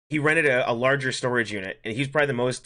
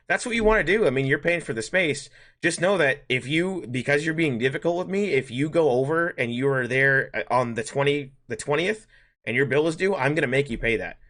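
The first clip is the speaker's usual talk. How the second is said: firm, raised warning, laying down the rules; stern retold warning; 3 semitones higher than usual. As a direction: warn him firmly that he'll pay. Retold warning to difficult customer.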